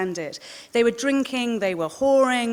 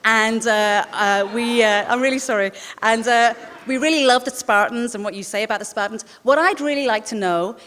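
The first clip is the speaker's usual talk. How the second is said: mock an eager American journalist, badly; a Brit doing a deliberately terrible American accent; 3 dB louder than usual. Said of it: "Try doing an American, which will be terrible".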